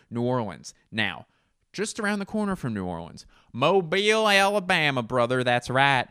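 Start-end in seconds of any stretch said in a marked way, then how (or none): 1.7-6.1 loud, high hype-man shout calling people brother; wrestling promo. Pretend. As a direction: sell the city like a wrestler cutting a promo. Hyped promo for Mobile, Alabama.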